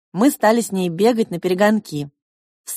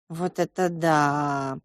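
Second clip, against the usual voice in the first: lower, softer, slow doubtful exclamation; disbelieving; 5 semitones lower, 4 dB quieter, slower than usual. Acted. Mother doubting her daughter's story, disbelieving. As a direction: say it as if you don't buy it. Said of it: "не поверила мама".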